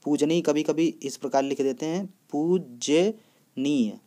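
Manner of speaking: careful slow explanation. Shown as a demonstration. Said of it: "ये भी बहुत ध्यान रखिए आप लोग".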